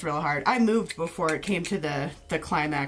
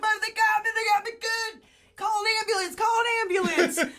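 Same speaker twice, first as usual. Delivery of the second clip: much higher, yelping plea; whiny beaten son. Retold or imitated. Beaten teen begging mom, high hammed-up yelps. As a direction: wail for the ambulance like a big baby. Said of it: "He's like".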